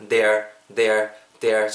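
"they're" as one syllable, like "there"; contracted pronunciation. Shown as a demonstration. Teacher models for learners, "they're" contracted into one syllable. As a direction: model "they're" with no separate "are". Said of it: "정도로 발음을 해주시고요".

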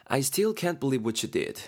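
very slow, deliberate English line; slow reproachful demo line; slow example read. Shown as a demonstration. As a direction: read each word out slowly for learners. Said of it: "A가 말하죠".

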